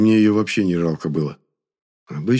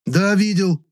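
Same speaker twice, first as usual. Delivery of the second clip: loud gruff retort; growled; 12 semitones higher, 4 dB louder, slower than usual. A narrator's reading. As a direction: growl it back. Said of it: "рыкнул я".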